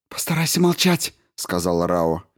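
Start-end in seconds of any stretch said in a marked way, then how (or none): 0.1-1.1 higher, firm voice of the commander; commanding woman. A narrator's reading. Commander Rao orders the crew over the radio, firm and high. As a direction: give the order crisply.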